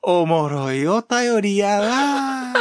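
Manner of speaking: slow, drawn-out mock praise with a laugh in it; sarcastic Kyoto politeness. Mocking the Kyoto-dialect backhanded compliment, slow and laughing. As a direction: sweetly praise it while clearly meaning the opposite. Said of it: "つまんないメールもう送ってこないでくださいねのニュアンス".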